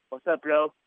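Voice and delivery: lightly imitated accent of Sheamus; casual greeting in a hint of Sheamus's accent. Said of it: "in his accent".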